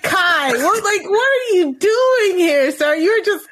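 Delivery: Azah, pissed off. Retold or imitated. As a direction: imitate an indignant telling-off, drawing out the words. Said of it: "Yes, Azah's pissed".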